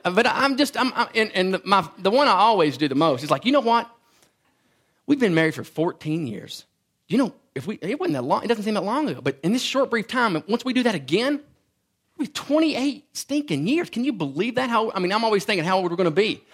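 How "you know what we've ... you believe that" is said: mock amazement. Retold excited remark to wife.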